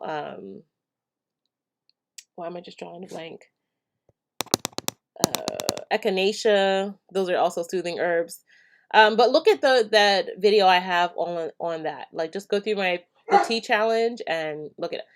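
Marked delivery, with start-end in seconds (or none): none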